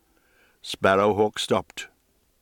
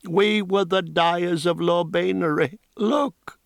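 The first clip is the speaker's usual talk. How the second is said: lightly voiced old woman, higher and drifting; a hint of a grieving crone losing her words; old woman rambling sadly of lost power; half-mad old dyer woman; 3 semitones higher than usual.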